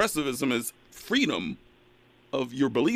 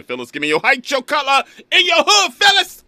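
calling out louder and higher to a full shout; building shout; 12 semitones higher, 9 dB louder than usual. Real, not acted. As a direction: call her name, building to a yell. Host calls caller, rising shout.

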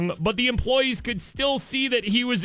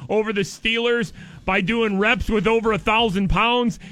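caller's text read aloud; 2 semitones higher than usual. Retold or imitated. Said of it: "he texted me".

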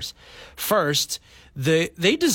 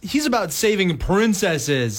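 slow, raised scolding voice; mock studio executives; 4 semitones higher, slower than usual. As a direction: imitate an offended objector, stretching the words. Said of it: "They would be like".

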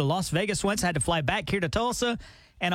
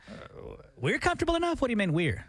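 indignant surprise; 6 semitones higher than usual. Real, not acted. Co-host pushes back on his partner's "we're", indignantly surprised. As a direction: pitch jumps way up in mock outrage.

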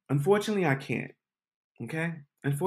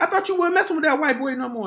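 put-on white boy voice; 10 semitones higher, faster than usual. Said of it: "He like".

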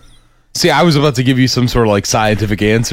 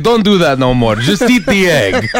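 put-on Russian-sounding accent; 5 semitones higher than usual. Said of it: "You sound Russian".

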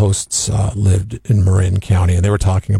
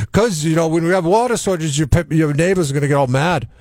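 a hint of an Irish lilt, higher; light Irish accent; 7 semitones higher than usual. Host imitating his Irish sprinkler guy, light Irish accent. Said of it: "he's Irish, so he says it like".

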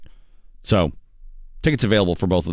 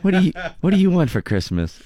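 higher, cheesy department store Santa; mall santa; 7 semitones higher than usual. Retold or imitated. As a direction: play a tired mall Santa asking a kid. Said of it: "He sounded like the worst mall Santa ever".

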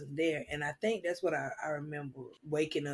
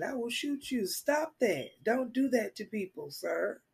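higher-pitched acted telling-off; mock-stern, raised-pitch warning; retold scolding; 6 semitones higher than usual. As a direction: tell a stranger off, pitched up.

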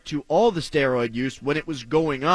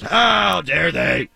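slow mock shout of outrage; 3 dB louder, much slower than usual. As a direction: drag it out in fake indignation.

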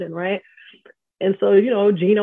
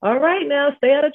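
imitating Coach Summitt; 8 semitones higher than usual. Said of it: "she was just like".

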